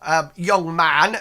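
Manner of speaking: put-on very high, loud, slow old lady voice; old woman. Old woman gushing at the young hero. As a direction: coo over the young man. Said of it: "old woman voiced by GM".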